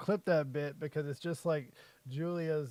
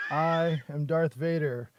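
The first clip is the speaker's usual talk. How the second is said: Darth Vader impression; 2 semitones lower, slower than usual. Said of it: "you shoulda thrown there".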